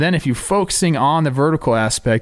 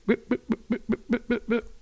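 laughing whip noises; 10 semitones higher, 10 dB quieter than usual. Retold or imitated. Mimics pitcher's fist pumps, laughing.

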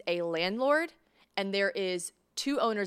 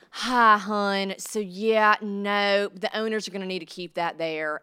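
louder, sugary Southern "hun" voice; Southern landlady; 4 dB louder, slower than usual. Retold or imitated. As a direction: sweet-talk the bad news, Southern style. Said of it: "like these ornery Southern women".

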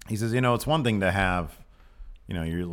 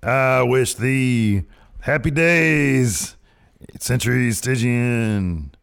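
slow, booming graveside voice; Undertaker voice; 2 semitones higher, 6 dB louder, slower than usual. Pretend. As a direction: intone it like a dead man's blessing. Undertaker-style anniversary message.

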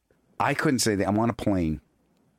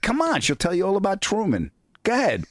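teasing urging; 5 semitones higher than usual. Retold or imitated.

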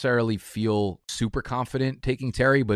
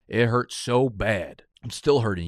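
mock pained; 2 semitones higher, slower than usual. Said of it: "You could feel the pain in my voice".

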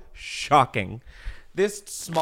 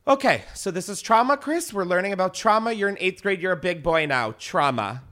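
teacher voice; 4 semitones higher than usual. Retold or imitated. Teacher voiced in school story.

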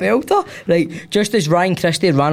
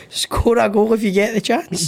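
mock shout; 5 semitones higher than usual. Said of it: "What a shout that is".

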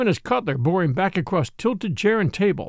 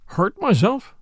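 higher, scornful exclamation; with contempt; 5 semitones higher, slower than usual. A narrator's reading. Captain scoffing at the priest's charge, contemptuous. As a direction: scoff at the very idea. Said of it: "exclaimed the captain with contempt".

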